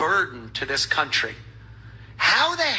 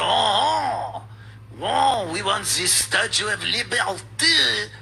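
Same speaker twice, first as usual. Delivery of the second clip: mock French whine; slower than usual. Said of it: "Here's what old, uh, Raphael".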